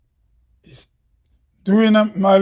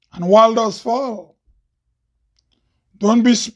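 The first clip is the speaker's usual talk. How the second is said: measured spoken-word delivery, line by line with long pauses; declaimed poem, key phrases lifted; poem recital. Acted. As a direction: recite each line deliberately, leaving space after it.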